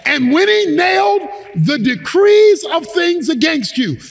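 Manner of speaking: emphatic scripture preaching, phrase by phrase; fervent preacher expounding a verse; forceful preaching. Real, not acted. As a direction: drive each point home to the congregation.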